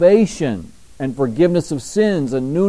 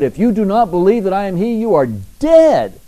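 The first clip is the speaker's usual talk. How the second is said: solemn warning; 5 semitones higher, 3 dB louder than usual. Retold or imitated. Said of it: "Another place he said".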